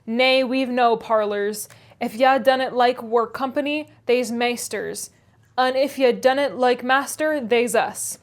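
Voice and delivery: crusty Yorkshire old man, mocking; scornful old Yorkshire servant. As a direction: scoff at the fancy word in broad Yorkshire. Joseph's dialect reply.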